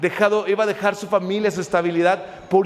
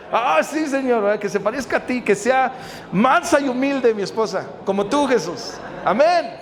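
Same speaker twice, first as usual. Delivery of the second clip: mock pious prayer; 2 semitones higher than usual. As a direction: play a too-eager praying husband, lightly. Jokingly acts out a spouse's prayer. (oración fingida, en broma)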